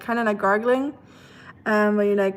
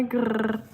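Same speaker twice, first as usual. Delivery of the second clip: throaty gargle noise, no words; gargling sound. Shown as a demonstration. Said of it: "Make the gargling sound".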